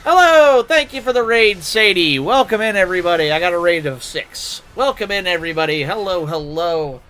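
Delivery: high, loud bubbly stream greeting; cute anime streamer. Acted. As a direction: welcome the raiders with bright excitement. Greets an incoming raid on stream.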